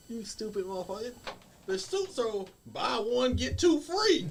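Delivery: incredulous scolding. Retold or imitated. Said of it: "And I was like".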